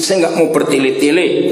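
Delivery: ordinary talk, nothing marked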